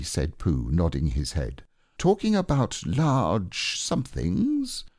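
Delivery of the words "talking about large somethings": dreamily. Acted. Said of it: "he went on dreamily".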